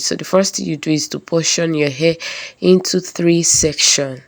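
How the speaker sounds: hoarse, stuffy voice from a cold; talking through a head cold. Real, not acted. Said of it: "pardon my voice. I have cold".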